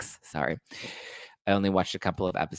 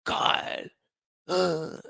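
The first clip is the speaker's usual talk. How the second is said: high whiny put-on Sandoval voice; Sandoval impression; 9 semitones higher, much slower than usual. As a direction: whine it out like Sandoval fed up. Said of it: "the way he's like".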